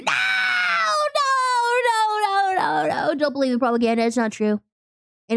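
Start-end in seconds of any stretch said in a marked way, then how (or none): 0.0-3.1 shouted no no no; mock protest. Shouting denial at chat.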